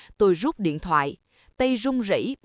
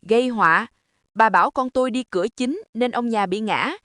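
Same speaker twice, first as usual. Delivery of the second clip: scornful. Acted. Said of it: "Mẹ tôi cười nhạt".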